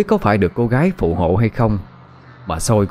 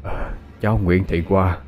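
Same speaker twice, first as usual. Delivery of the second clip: grave prayer; 2 semitones lower than usual. Acted. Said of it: "Chú Tư thắp nhang rồi khấn".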